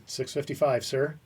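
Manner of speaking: crisp, formal, military-style answer; formal dutiful reply. Retold or imitated. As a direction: answer like a soldier to an officer. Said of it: "I never called him sir".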